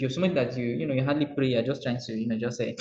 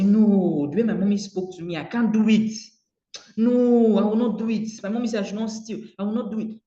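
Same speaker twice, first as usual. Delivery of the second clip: put-on loud, higher, defiant child's no; a boy proudly refusing, louder and higher; child refusing firmly; 6 semitones higher, 5 dB louder than usual. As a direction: Junior refuses his mother's wrong, loud and firm. Junior voiced, refusing firmly.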